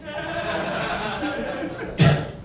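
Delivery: high, soft, drawn-out laugh; imitated laughter. Gordita seen looking up after the accident, high imitated laugh. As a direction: imitate someone cracking up, high and quiet.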